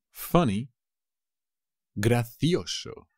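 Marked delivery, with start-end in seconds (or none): 2.0-3.1 slow model word. Shown as a demonstration. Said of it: "teacher models the word slowly".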